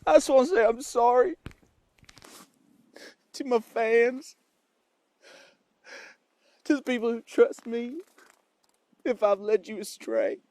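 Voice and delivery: put-on cowboy accent. Apologizing to fans and Amanda, in fake Texan accent. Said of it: "I don't even have an accent".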